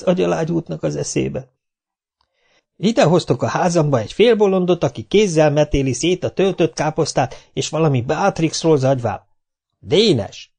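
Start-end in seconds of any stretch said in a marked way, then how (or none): 2.8-10.5 a hint of a scolding mother, pitched up; lightly voiced mother scolding. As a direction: tut at the boys over the madman. Mother scolding about the guest.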